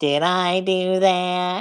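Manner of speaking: slow, drawn-out, nasal nerdy voice. Doing Steve Urkel again, trying it more nasally, nasal Steve Urkel voice. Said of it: "He's a little bit more nasally".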